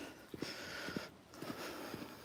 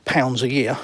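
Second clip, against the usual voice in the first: mocking quote. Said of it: "it's all very well saying".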